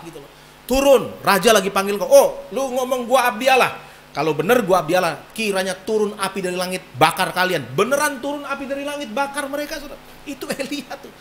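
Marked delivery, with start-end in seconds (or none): 0.7-2.1 loud summons. Retold or imitated. Messengers order Elia down. 2.1-7.6 defiant retort. Retold or imitated. Elia answers the messengers.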